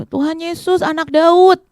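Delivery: high, insistent call; berteriak memanggil. Acted. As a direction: cry out to be noticed. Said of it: "Bartimeus tetap teriak adik-adik". (seruan lantang bernada tinggi)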